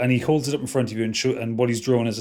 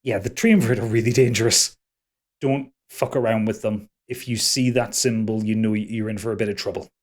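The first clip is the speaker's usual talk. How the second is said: calmed down; 2 semitones lower than usual. Acted. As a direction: warn them evenly, composed now. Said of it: "calms himself down and says".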